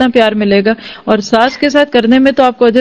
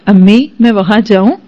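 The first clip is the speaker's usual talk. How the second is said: sweetly asking permission; 3 dB louder than usual. Shown as a demonstration. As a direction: ask mother gently as a humble daughter-in-law. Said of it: "آئندہ اگر تم یہ ایسے بولو نا". (ادب سے اجازت مانگتے ہوئے نرم لہجہ)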